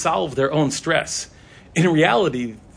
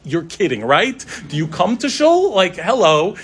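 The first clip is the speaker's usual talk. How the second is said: mock incredulous; 3 semitones higher, 3 dB louder than usual. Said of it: "I'm like".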